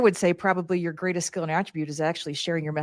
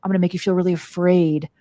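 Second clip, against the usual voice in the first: creepy devil voice. Acted. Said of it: "I always give that little devil a voice".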